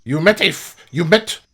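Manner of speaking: loud, high, halting question; urgent disbelief. Acted. Frog questions adventurers about sighting, astonished.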